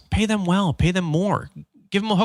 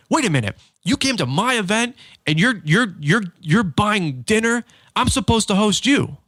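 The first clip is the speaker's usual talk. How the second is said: much higher, incredulous protest, slowing on buying dinner; indignant surprise; 8 semitones higher than usual. Retold or imitated. Host Nick protesting that his guest bought dinner, in high, incredulous disbelief.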